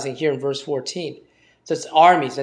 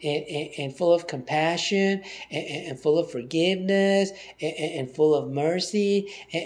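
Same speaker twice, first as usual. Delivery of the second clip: mocking fluffy piety; 6 dB quieter than usual. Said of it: "It's not fluff".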